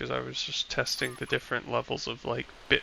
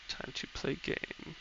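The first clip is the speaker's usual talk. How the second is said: whispered; 2 semitones higher, 10 dB quieter, slower than usual. Real, not acted. Muttered to self, starting game.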